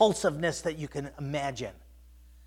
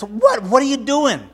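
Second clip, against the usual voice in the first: high, loud, incredulous question; acted exasperation; 8 semitones higher, 7 dB louder than usual. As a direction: call out in disbelief. Exclaims at others' foolishness.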